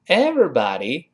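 American everybody with an open a in body. Shown as a demonstration. Teacher contrasts American everybody. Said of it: "在这是美式发音".

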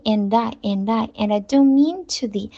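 and I run together as "an-dai"; and I joined as one word; linked reading. Shown as a demonstration. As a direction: link the d of and onto I. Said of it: "连读的不够立体".

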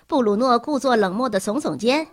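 ordinary delivery

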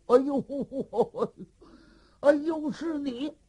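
put-on surprised laugh at an old friend; laughing recognition. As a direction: laugh as you recognize him. (认出老友，惊喜大笑)

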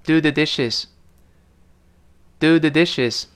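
跟老师读 do the dishes; model reading. Shown as a demonstration. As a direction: do the dishes spoken clearly for repetition. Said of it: "我们跟老师读一遍". (示范跟读 do the dishes)

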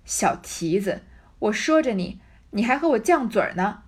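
put-on loud scolding old woman. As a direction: snap at the girl like a cranky old nanny. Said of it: "骂道". (老婆子大声骂人)

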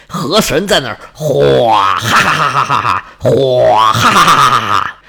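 low booming gloating laugh with whooshing water; the river god mocking the drowning hero, laughing low; river god's mocking laugh.

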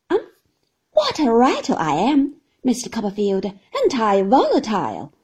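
pleased with herself, lightly rattling on; Miss Mowcher. Acted.

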